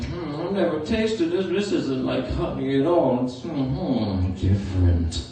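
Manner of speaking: lightly voiced pondering bear; trailing-off, puzzled bear voice; Pooh Bear. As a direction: muse as if tasting something new. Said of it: "licking it, and then".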